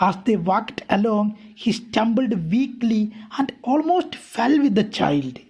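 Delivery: a careful read-aloud for students; slow story reading. A narrator's reading. Teacher reading the English text aloud to her class, slow and deliberate. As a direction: read each English phrase slowly and deliberately.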